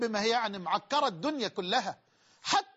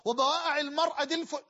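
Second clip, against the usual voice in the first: mocking a boasting womanizer, a bit higher; lightly voiced bragging seducer; mock boaster; 4 semitones higher than usual. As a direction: sneer out a playboy's brag. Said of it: "عشان تقول".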